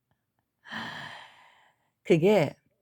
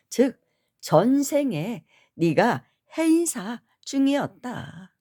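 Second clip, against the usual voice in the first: retold scolding; 5 semitones higher than usual. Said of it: "야단을 치시는 거예요".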